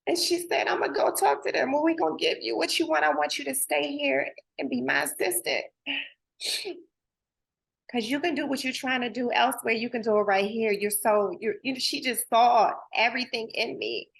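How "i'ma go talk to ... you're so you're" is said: higher, eager voice of the boss; retold boss pleading. Retelling how her boss begged her to stay, eager. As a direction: play the boss who won't let her go.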